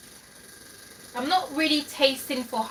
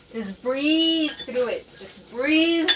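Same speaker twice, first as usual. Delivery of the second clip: slow deliberate; 3 semitones higher, much slower than usual. Real, not acted. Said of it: "You literally have to breathe".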